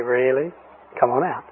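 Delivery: soft, sweetly mocking calm. Shown as a demonstration. Preacher to the demon, softly sweet and unbothered. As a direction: smile through it, quietly unbothered. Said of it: "Just smile real sweet".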